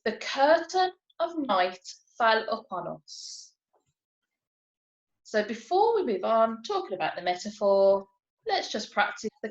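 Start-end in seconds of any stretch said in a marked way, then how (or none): 0.0-3.5 slow example read. Shown as a demonstration. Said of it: "So here's an example".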